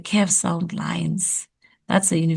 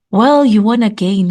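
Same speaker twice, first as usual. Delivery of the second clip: WELL stressed loud, then a pause; pause after WELL; 2 semitones higher, 7 dB louder than usual. Shown as a demonstration. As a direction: draw out "Well" before going on. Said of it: "I had it when I was speaking".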